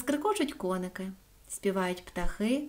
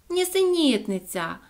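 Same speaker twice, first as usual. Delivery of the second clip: higher, louder, slow outraged cry; indignant; 5 semitones higher, 5 dB louder, slower than usual. A narrator's reading. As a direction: protest it is nonsense. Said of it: "обурилась собачка Соня".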